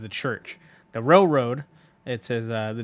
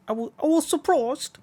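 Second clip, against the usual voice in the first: much higher, odd put-on voice; trying a Dio voice. Shown as a demonstration. Player testing a high voice for Dio. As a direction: stretch for a haughty rival's voice. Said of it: "I gotta think about Dio voice".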